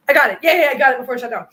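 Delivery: loud, fast little victory cry; relieved cheer. Real, not acted. Phone saved just in time, relieved cheer. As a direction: celebrate beating the battery.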